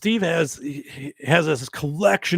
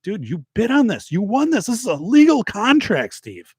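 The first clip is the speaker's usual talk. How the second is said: higher, pushy fake-serious insistence; mock insistence; 7 semitones higher than usual. The speaker pranking Steve over the bid, high mock-serious insistence. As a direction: press him hard with a straight face.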